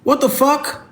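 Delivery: high-pitched, exasperated outburst; real, incredulous anger; indignant anger. Real, not acted. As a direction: fire back indignantly, pitch jumping up high. Angry retort to live commenters.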